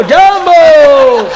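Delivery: a very slow, high જાંબો, stretched out long and loud with a laugh; long drawn-out mock greeting. Guest from Africa greets the crowd: long stretched જાંબો. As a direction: drag જાંબો out as if singing it. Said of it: "આફ્રિકાના આવેલા".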